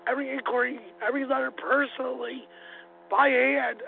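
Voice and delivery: raspy allergic smoker's voice; thick hoarse New Jersey voice; smoker's rasp. Real, not acted. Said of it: "Sorry about my thick New Jersey allergic smoker's voice".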